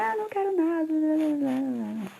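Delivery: put-on very high, whining kid's blah blah; mother mocking the child's whining; whiny child. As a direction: whine it dismissively like a cranky kid. Child whining in acted dialogue.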